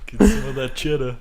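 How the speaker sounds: bad Boston accent again; hammy attempt at a Boston accent. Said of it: "that was a terrible fucking Boston accent".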